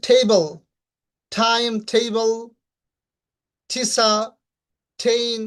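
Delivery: টেবল, টাইম as "thebal, thaim"; slow drill, puffed T in টেবল and ঠিসা; aspirated T. Shown as a demonstration. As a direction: release air on each T, from টেবল to টেইন. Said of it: "এরকম উচ্চারণ করবেন".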